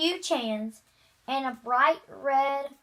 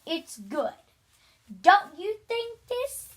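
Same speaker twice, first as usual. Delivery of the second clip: cheeky defiance; 5 semitones higher than usual. Acted. Boy provoking the teacher before the class, cheeky and higher. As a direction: play innocent while needling him.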